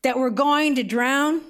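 slow, drawn-out pleading cry at mild volume; mild retold shout. Disciples waking Jesus in the storm, mild retold shout.

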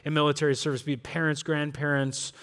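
low, soft praying voice; prayer. Real, not acted. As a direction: lead a congregation in quiet prayer. Leads a prayer.

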